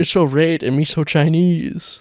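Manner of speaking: light mock accent, "rate" for late; reading his DM in a faint fake accent; mock Chinese accent. Quoting the creep's DM, mild mock Chinese accent. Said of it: "That's what he says in these D Ms".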